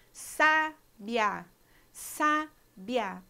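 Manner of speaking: sábia said slowly, i and a glided together; slow diphthong demo. Shown as a demonstration. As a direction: blend the i and a of sábia in one syllable. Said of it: "a gente tem um ditongo".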